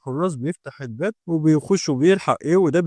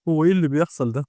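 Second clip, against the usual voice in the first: plain reading voice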